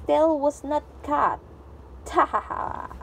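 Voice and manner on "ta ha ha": breathy giggle; laughing. Real, not acted. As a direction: giggle to yourself. Child laughs at story.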